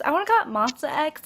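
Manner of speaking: band name with dropped r, Boston style; Boston accent. Shown as a demonstration. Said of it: "like, with a Boston accent".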